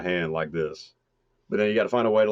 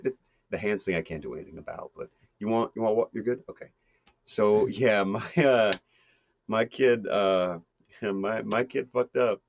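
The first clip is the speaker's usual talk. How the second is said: normal Midwest guy; 2 semitones higher than usual. Acted. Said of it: "just a normal guy from the Midwest".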